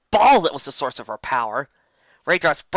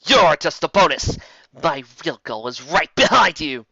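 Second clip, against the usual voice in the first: simple heroine; 3 semitones higher, 6 dB louder than usual. A narrator's reading. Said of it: "simply said Raindrops".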